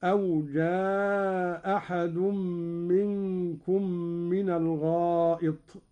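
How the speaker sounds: جاء أحد with the hamza dropped and the vowel kept short; Qalun reading, short vowel. Shown as a demonstration. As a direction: say جاء أحد quickly as ja-ahad, no stretch. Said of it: "والقصر مقدم". (جاء أحد بالإسقاط مع القصر)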